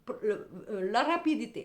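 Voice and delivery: reenacting her irritated plea to the tarot; exasperated outburst. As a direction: snap at the cards, out of patience. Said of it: "Je me bafouille tellement je suis énervée".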